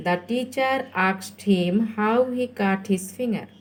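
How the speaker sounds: stretched words, spelled out for learners; slow dictation. Shown as a demonstration. Teacher reads a new question to pupils, very slowly. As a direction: read it out very slowly.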